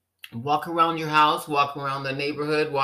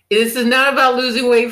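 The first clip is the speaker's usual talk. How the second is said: emphatic; 8 semitones higher, 6 dB louder than usual. Real, not acted. Emphatic correction.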